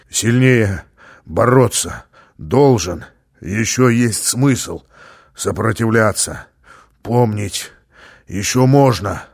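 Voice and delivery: broken, slow feverish words; delirious feverish rasp. Acted. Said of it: "Слова превратились в рычание".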